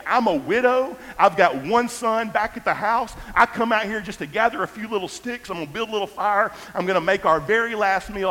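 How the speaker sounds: high, loud, incredulous outburst; a widow at the end of her rope, voice up high; the widow scolds Elijah, high and frantic; desperate widow. Retold or imitated. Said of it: "this is essentially what she's saying".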